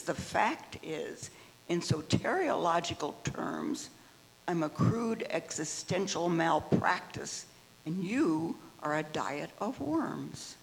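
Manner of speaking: steady, deliberate poetry recital; poem reading. Acted. Member reading a poem to the group, deliberate recital. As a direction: give each line its own weight, like reading at an open mic. Reads Fenton poem aloud.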